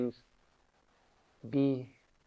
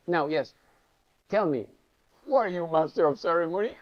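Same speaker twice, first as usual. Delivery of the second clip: louder guru challenge; 3 semitones higher, 6 dB louder than usual. Retold or imitated. Guru challenges him, touching forehead.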